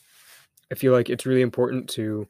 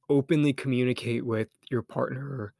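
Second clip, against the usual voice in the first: voice crack. Real, not acted. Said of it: "voice crack, good lord".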